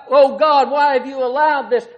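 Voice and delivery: loud pleading cry; crying out to God. Acted. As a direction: call out loud, despairing. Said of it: "And he's crying out".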